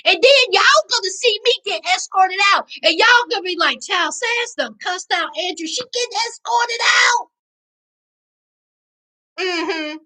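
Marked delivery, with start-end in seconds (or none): 3.8-7.3 mock gossiping viewers. Imagined viewers gossiping about her outburst.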